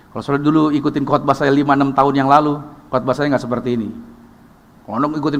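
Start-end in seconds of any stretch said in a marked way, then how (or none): none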